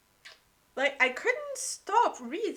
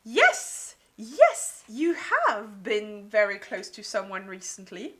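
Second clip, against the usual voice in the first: excited yes; 6 dB louder than usual. Retold or imitated. Reader shouting at the book, excited. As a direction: pounce on the clue. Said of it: "this is where I thought".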